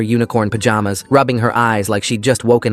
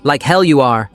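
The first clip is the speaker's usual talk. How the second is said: yelled; 3 semitones higher than usual. A narrator's reading. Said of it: "I yelled back".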